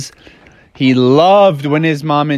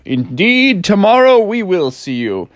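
dad; 3 semitones higher than usual. Acted. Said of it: "And his dad was like".

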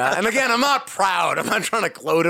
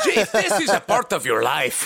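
badly faked movie tough-guy voice, pitched up; poor action-hero impression, higher than usual; Dom Toretto; 5 semitones higher than usual. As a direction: do a hammed-up action hero and miss. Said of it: "say it in your best Dom Toretto voice".

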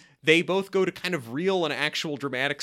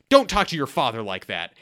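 mock yell; 6 dB louder than usual. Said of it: "genuinely angry, yells".

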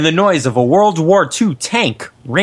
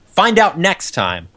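dramatic serial announcer voice; announcer outro; 2 semitones higher than usual. Acted. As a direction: tease the next episode.

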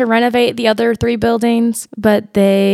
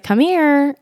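higher-pitched retold call; dad calling out; 6 semitones higher than usual. Dad calls his daughter from the hallway, retold calling out. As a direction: call her over, lightly acted. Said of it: "her dad called to her".

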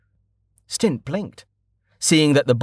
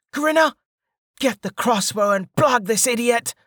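high, sharp bandit yell; bandit's order; 12 semitones higher than usual. A narrator's reading. Bandit ordering Grinner to shoot, high angry call.

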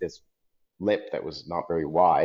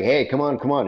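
higher-pitched, mildly urgent yell; mock yell; 6 semitones higher than usual. Someone yelling in judges' ears under time pressure, mock yell. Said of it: "someone yelling in our ear".

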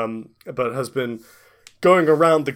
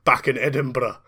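put-on Scottish accent. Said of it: "I am Scottish".

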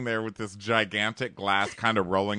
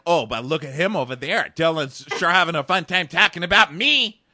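higher, louder put-on Vicky accent; 5 semitones higher, 7 dB louder than usual. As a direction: camp mocking Vicky accent impression. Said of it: "It's the Vicky accent".

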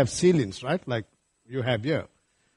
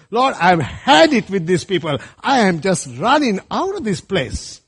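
exasperated Moses; 3 semitones higher, 5 dB louder than usual. Retold or imitated. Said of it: "would have wanted to pass the baton many times and said".

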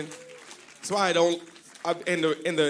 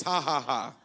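deliberate ha ha ha; practice laugh; 3 semitones lower, 3 dB quieter than usual. Shown as a demonstration. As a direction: model a laugh for the church. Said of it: "Let's practice".

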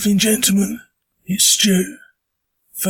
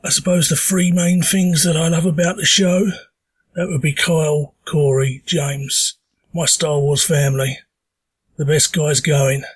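hoarse from a sore throat; talking through a sore throat. Real, not acted. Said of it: "apologise for the voice. I have got a stonking sore throat".

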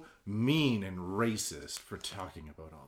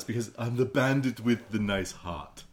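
imitating the Bandit. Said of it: "That was his way of speaking".

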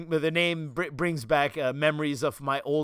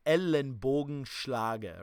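Ellenbogenschlage drawn out slowly, Swabian style; Swabian accent; much slower than usual. Shown as a demonstration. Speaker showing his old Swabian dialect, slowly. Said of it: "so you say".

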